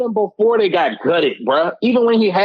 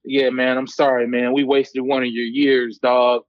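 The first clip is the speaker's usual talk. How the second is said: lower, sheepish apology voice; imitating J J Watt; 6 semitones lower than usual. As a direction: mumble a sorry like a beaten player. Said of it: "walking off the field like".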